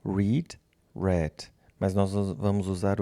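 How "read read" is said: first "Read" like reed with a rise, second "read" like red with a fall; "Read" as reed, then "read" as red; "Read" como "rid", "read" como "red"; contrast the two sounds. Shown as a demonstration. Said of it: "ele muda só o som".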